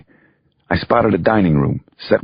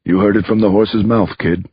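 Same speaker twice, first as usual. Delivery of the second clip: put-on light Brooklyn accent, a little higher; 5 semitones higher than usual. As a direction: brush the kid off in a mild Brooklyn accent. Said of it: "the lawyer said in his Brooklyn accent".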